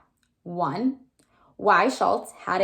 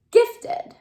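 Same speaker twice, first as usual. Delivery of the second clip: trying the word out, louder and higher; a little louder; 13 semitones higher, 7 dB louder than usual. A narrator's reading. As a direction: say it a bit louder, testing it. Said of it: "I said a little louder".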